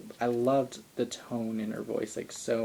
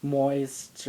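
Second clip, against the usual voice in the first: slow sultry quote; 2 semitones higher, much slower than usual. Retold or imitated. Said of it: "and he was like".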